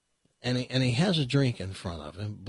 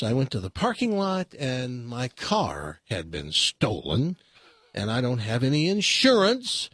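higher, rising distressed account; little man's woes; 3 semitones higher than usual. Acted. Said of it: "He says".

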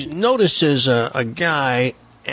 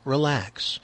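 mock calm; 6 dB quieter than usual. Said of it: "you just kept calm and were saying things like".

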